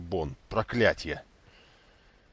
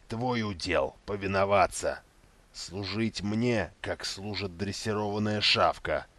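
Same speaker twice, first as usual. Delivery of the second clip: dark lord. Acted. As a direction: threaten him like a dog. Myrddraal threatens Inquisitor.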